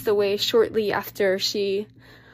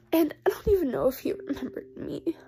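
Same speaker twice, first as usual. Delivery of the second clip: sad whisper; 3 semitones higher, faster than usual. Real, not acted. Grandpa forgot family.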